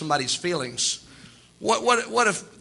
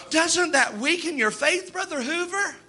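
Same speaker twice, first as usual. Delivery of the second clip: mocking challenge; 9 semitones higher, slower than usual.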